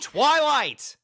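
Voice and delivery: loud, sharp call of her name; yell. Acted. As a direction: shout her name to snap her out of it. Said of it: "I yell".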